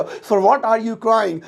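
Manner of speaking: slow, clear English; teacher modelling the sentence; spaced-out words; slow model sentence. Shown as a demonstration. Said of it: "तुम किस लिए रो रहे हो".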